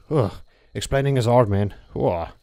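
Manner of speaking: tired, breathless ugh; winded groan. Real, not acted. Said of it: "I'm really out of breath here".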